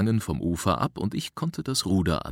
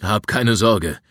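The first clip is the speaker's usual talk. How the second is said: firm, raised-voice reassurance; reassuring; 3 semitones higher, 6 dB louder, slower than usual. A narrator's reading. Rescuer to the frightened boy, reassuring. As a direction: reassure him over the distance, louder. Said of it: "beruhigte ich ihn".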